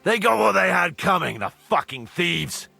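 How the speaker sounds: high, loud outburst; heated contempt. Acted. Cursing beaten thieves after the fight, heated contempt. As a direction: spit out the triumph angrily.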